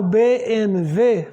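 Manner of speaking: BMW with W named like V; German letter names. Shown as a demonstration. Teacher explaining the German car name, German letter names. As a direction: say the W in BMW as a V sound. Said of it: "O W no alemão tem som de V".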